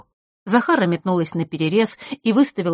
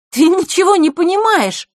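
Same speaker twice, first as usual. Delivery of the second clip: curt, high, loud outburst; 13 semitones higher, 8 dB louder than usual. Acted. Scene: Zakhara snapping at her guest, curt and loud. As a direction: bite each word off. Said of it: "отрывисто произнесла Захарра".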